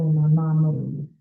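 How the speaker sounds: "my mom Mizzy" with "mom" closed on an M; Brooklyn pronunciation. Shown as a demonstration. Committee member explains the local habit, Brooklyn pronunciation. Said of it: "it's a real Brooklyn thing to say".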